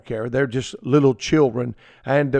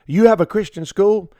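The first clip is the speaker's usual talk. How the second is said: incredulous question; 5 semitones higher than usual. Retold or imitated. Visitor questioning the pastor, higher and incredulous. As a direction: ask as if it can't be true. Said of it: "people that have said things like this".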